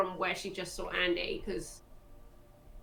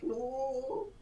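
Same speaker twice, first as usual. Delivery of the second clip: mock Scottish accent; 5 semitones higher, 4 dB quieter than usual. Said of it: "it's like".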